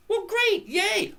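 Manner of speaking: mock enthusiasm, pitched high; sarcastic. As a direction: scoff at the fund's promise. Sarcastic reply to fund pitch.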